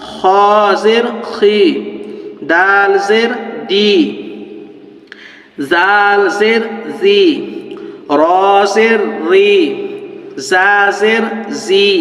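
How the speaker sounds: slow drawn-out spelling drill; slow recitation. Shown as a demonstration. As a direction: chant each letter slowly for students to repeat. (ধীরে ধীরে বানান পাঠ)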